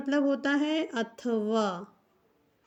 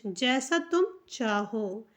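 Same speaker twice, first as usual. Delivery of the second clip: slow gloss; 3 semitones lower, slower than usual. Shown as a demonstration. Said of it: "sentence होता है".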